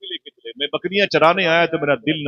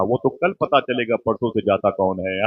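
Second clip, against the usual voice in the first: ordinary talk, nothing marked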